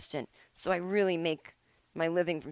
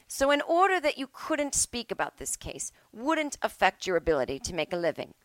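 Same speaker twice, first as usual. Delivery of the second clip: judge laying out the logic; mock judge; 4 semitones higher than usual. Judge voiced reasoning.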